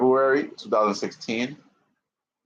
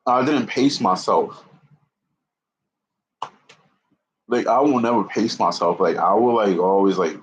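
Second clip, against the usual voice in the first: breathless, catching breath; winded, short of air. Real, not acted. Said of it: "right now, like, I'm running out of breath".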